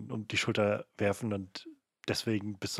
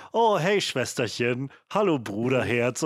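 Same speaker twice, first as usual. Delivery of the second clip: sugary movie sibling; 3 semitones higher, 4 dB louder than usual. Retold or imitated. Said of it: "wenn Leute ans Telefon gehen in Filmen".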